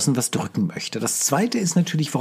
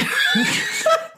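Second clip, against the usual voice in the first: high shrieking laugh; loud burst of laughter. Real, not acted. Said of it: "Hör auf zu lachen". (lautes, hohes Auflachen)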